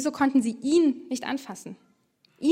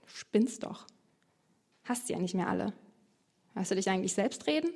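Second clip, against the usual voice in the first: scornful crowd; 2 semitones lower, 5 dB quieter than usual. Retold or imitated. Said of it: "Und wie reagieren die Menschen?".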